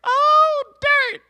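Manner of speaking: Ruby gushing with cartoon delight; squeaky Ruby voice. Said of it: "Ruby was like".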